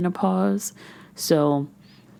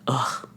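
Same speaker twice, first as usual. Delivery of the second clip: frustrated groan; 2 semitones lower than usual. Retold or imitated. Podcaster re-enacting her arrival at monitoring, frustrated groan. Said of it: "I'm just all frustrated".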